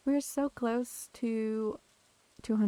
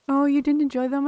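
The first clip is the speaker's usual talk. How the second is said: surprised; 4 semitones higher, 9 dB louder than usual. Real, not acted. Reacting to chat.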